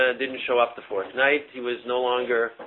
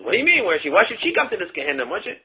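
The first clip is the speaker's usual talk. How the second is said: indignant retort; 5 semitones higher, 4 dB louder, faster than usual. Retold or imitated. Retold husband indignant at question.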